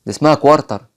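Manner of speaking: كوارتر said kwar-tar with a rolled r; the mistaken كوارتر, r fully sounded; wrong quarter. Shown as a demonstration. Teacher shows the wrong quarter to avoid. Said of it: "ما اسمهاش كوارتر".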